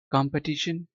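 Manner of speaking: American "कॉम्पिटिशन" with an ah in the first syllable; American-accent "कॉम्पिटिशन"; American pronunciation. Shown as a demonstration. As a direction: say "कॉम्पिटिशन" as kahm-petition, American style. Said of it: "पढ़ेंगे इसको American accent में".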